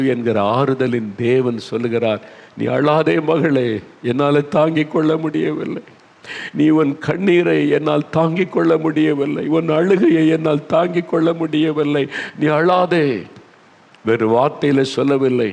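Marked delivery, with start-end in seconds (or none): 2.6-12.1 pleading comfort. Acted. Jesus pleading with the widow over her tears. 12.4-13.1 higher and louder, a fervent நீ அழாதே; urgent comfort. Acted. Jesus urging the widow to stop crying, fervent.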